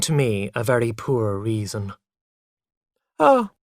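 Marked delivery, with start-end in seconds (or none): 3.2-3.5 lightly. A narrator's reading. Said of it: "I said lightly".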